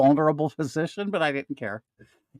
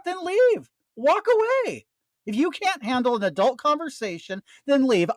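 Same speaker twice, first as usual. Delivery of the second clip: heated high rant; 4 semitones higher than usual. Real, not acted.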